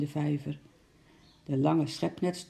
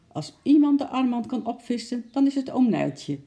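comforting; 9 semitones higher, 5 dB louder than usual. A narrator's reading. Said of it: "zei ze troostend".

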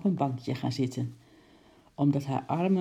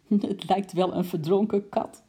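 higher, louder giggly line; giggling; 4 semitones higher, 4 dB louder than usual. Acted. Lady giggles at the soaked coat, higher giggly voice. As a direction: giggle through the words. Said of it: "giechelde mevrouw Kwant".

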